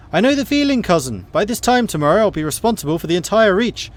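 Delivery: high, loud mocking noblewoman; taunting rival cousin. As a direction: crow about the tourney like a smug rival.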